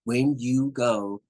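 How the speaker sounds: slow, over-deliberate words; drawn-out, talking-down delivery; sarcastic. Shown as a demonstration. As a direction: spell it out slowly with condescending sarcasm. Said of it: "sarcasm, like".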